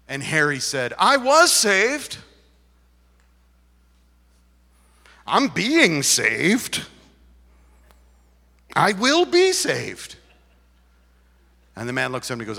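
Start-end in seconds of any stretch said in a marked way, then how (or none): 1.0-10.2 "was", "being" and "will be" punched slowly; loud, deliberate stress on "was", "being", "will be"; weight each tense of "saved", pausing between; emphatic retold answer. Acts pastor's emphatic staged answer.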